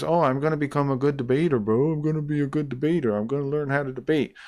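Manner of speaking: hammed-up impression of a cocky debater; mocking imitation. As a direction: sneer his words back at him. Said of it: "And he goes".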